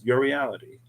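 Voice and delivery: "reality" lifted and given its own beat; stress on reality. Shown as a demonstration. Host repeating a wish to viewers, emphasis on "reality". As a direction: set "reality" apart with emphasis. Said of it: "Emphasis on reality".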